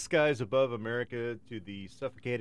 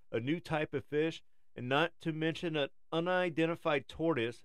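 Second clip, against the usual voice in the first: nature documentary; 3 semitones higher than usual. Acted. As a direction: read it like a wildlife film. Reads a documentary script.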